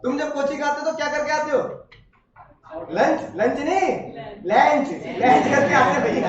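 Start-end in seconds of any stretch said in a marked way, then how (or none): 2.9-6.3 put-on लंच stretched slowly like a kid; childish pron. Shown as a demonstration. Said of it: "जो बचपन की होती है". (बच्चे की तरह लंच, हँसते हुए)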